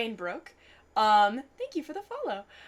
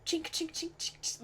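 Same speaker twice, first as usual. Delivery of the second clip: spur jingle; 8 semitones higher, 10 dB quieter than usual. Retold or imitated. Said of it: "ching noise".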